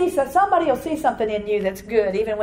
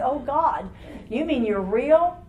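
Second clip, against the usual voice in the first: laughing wonder; 4 semitones higher, much slower than usual. Retold or imitated. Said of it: "I said".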